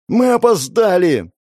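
high, slow, drawn-out cry; shouted alarm. Acted. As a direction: shout it urgently across the chaos. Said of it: "прокричала Мэй".

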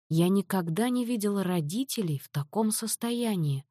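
ordinary delivery

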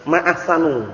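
"Ma ahsanu" with the final u stressed, not ahsana; the teacher demonstrates "ahsanu" with a u ending; wrong vowel shown. Shown as a demonstration. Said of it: "Dia bukan ma ahsana ngomongnya".

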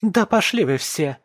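high, loud raging shout; wife screaming at husband and family; furious scream. Acted. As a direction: scream at all of them. Nika screaming at everyone.

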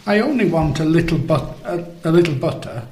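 high, broken, whimpering king. Acted. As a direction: stammer it out in a whimper. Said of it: "he whimpered".

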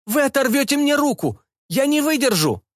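high panicked cries; panicked shouting. A narrator's reading. Cyborg begs students to let go, high panic. Cyborg being torn apart.

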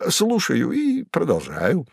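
the cat Behemoth boasts to Woland of his exploits; Behemoth's voice. A narrator's reading. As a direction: announce it with swagger. Cat answers.

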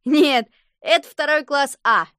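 a lightly voiced joker boy; loud joking reply. A narrator's reading. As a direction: shout out a joke at the wrong moment. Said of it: "громко сказал".

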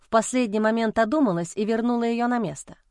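ordinary delivery, nothing marked

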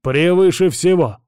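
slow, grandly declaiming hammy stage actor; pompous. Acted. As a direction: pronounce it with lofty self-importance. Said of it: "пафосно произнёс Госар".

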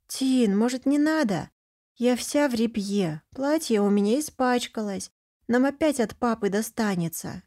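put-on little girl. Little sister begging her brother to stop, childlike. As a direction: whine gently like a worried small girl.

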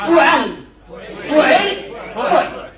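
each فعل starts with fu-, middle vowel changing; فعل with "u" first, then varying vowels; damma on first letter. Shown as a demonstration. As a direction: recite فعل slowly as fu-ʕal, fu-ʕil, fu-ʕl. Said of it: "بالضم".

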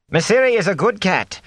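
high, sharp scolding cook voice; a cook scolding the innkeeper, voiced high and sharp. Cook sharply defending her cat to the innkeeper. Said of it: "the cook was saying sharply".

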